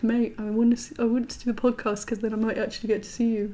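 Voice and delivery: light, quick impression of a mate named Hugh; lightly voiced Hugh, a hint of his accent. Mate Hugh begging to do a podcast, lightly imitated. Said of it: "that's my Hugh voice".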